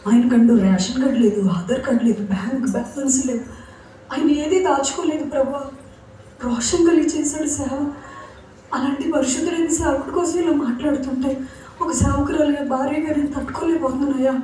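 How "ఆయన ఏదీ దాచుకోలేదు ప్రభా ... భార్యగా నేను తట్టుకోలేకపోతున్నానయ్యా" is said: higher, softer anguished plea to God; praying to God. Retold or imitated. Grieving widow pleads with God over her husband, higher and softer. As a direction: pour out grief to God as a quiet prayer. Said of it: "నేను దేవుడితోనే మాట్లాడుతున్నాను".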